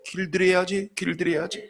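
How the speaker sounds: husband's private smug mutter; inner muttering. Retold or imitated. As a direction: say it to yourself smugly, dying off. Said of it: "속으로".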